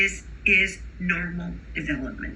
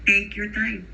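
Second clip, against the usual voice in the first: put-on Spanish accent; 3 semitones higher than usual. Teacher imitating an emergent bilingual, Spanish accent. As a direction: say it like a Spanish speaker learning English. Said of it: "an emergent bilingual might say".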